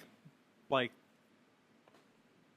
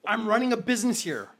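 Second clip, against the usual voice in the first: man's voice; 3 semitones higher, 7 dB louder than usual. Acted. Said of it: "you hear a man's voice saying".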